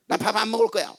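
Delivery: softly imitated sulky child's threat; threatening child. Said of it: "밥 안 먹는 걸로 협박하는 애들". (밥투정하며 협박하는 아이 흉내)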